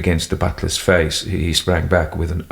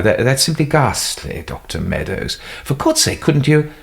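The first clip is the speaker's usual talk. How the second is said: high, stammering plea; pleading; 7 semitones higher than usual. Acted. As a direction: beg the doctor. Son pleading with doctor.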